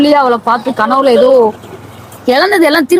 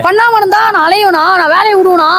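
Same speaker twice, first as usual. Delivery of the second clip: higher, rising upset protest; emotional outburst; 5 semitones higher than usual. Acted. Lovesick man protesting to his friend, worked up and higher. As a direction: cry out against fate, worked up. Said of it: "ஏன் இப்ப emotional ஆவற?".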